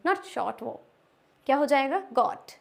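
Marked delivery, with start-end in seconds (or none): 2.1-2.5 "got" as goat, with a long o; long O sound. Shown as a demonstration. Teacher answering how the word is read, long O. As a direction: hold the o in "got". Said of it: "वो भी long ओ की".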